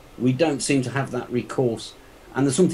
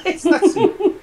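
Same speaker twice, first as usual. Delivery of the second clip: real laugh breaking into the words; 7 dB louder than usual. Real, not acted. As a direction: laugh it off, pitch jumping high. Laughs at his own rant.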